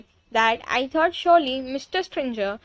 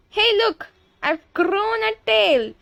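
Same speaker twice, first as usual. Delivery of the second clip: put-on high-pitched girl's alarmed yell; 8 semitones higher, 4 dB louder than usual. A narrator's reading. Girl discovers her tail, yelling high. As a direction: cry out high, stretching the end. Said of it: "She yells".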